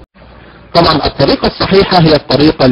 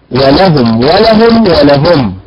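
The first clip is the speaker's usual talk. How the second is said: teacher cycles through the ways of ولهم; three stress variants; slower than usual. Shown as a demonstration. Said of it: "لها ثلاث طرق في الأداء".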